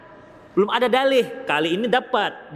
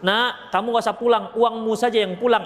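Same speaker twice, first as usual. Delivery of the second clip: joking mother voice. Retold or imitated. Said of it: "kalau emak nggak, nggak nyuruh".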